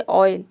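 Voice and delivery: ऑयल opening on an "aw" sound. Shown as a demonstration. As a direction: say ऑयल as aw-yil, not oh-yil. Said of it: "अ pronounce करें". (ऑयल के शुरू में "ऑ" की ध्वनि)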